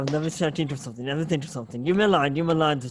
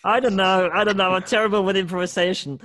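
flustered; 6 semitones higher, 6 dB louder than usual. Real, not acted. Flustered after bad impression.

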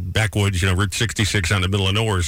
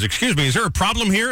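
polite conductor voice; 9 semitones higher than usual. Retold or imitated. Conductor voice in joke.

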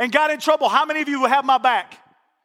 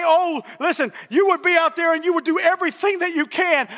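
calling out; 3 semitones higher than usual. Acted. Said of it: "God would say".

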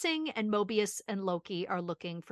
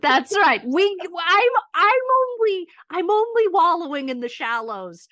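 laughing; 9 semitones higher, 9 dB louder than usual. Real, not acted. Laughing, loud, high reply.

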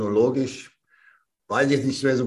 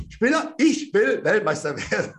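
higher, emphatic retort on "Weltmeister"; defiant insistence; 7 semitones higher than usual. Retold or imitated. Young athlete answering the doubting trainer, defiant. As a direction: insist on it, laughter breaking in.

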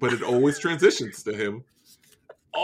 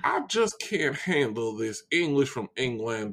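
Southern rant climbing high at the end; hammed-up indignant Southern bluster; Southern gentleman; 8 semitones higher than usual. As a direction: build to outrage in a cartoon Southern voice. Keeps up Foghorn voice.

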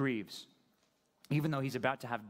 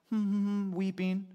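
put-on wailing, higher and louder; mock weeping; 6 semitones higher, 4 dB louder, slower than usual. Preacher imitates mourners weeping for custom's sake, mock wailing. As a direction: fake a show of weeping. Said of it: "the Jews are like".

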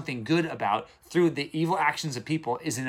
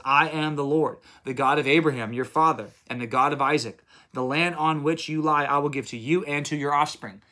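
God's words read with firm emphasis; lightly declaimed Bible verse; scripture reading; 2 semitones higher than usual. Acted. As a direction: read it out as a solemn promise. Reads God's words to Jacob.

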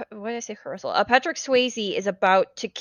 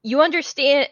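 sad father; 5 semitones higher, 3 dB louder than usual. Retold or imitated. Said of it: "he's like".

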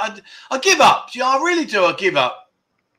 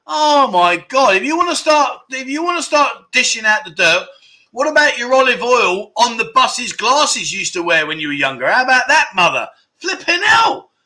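half-laughing mock outrage, raised and high; playful indignation; 5 semitones higher than usual. Real, not acted. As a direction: dish the dirt back at mum, teasing. Hitting back at mum's story.

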